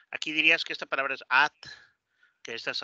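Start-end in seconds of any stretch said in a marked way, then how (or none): 1.3-1.5 "at" with open Spanish a; read as in Spanish. Shown as a demonstration. Teacher mimicking a Spanish reader, Spanish-style vowel. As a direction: say "at" as Spanish spelling reads. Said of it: "como se lee en español".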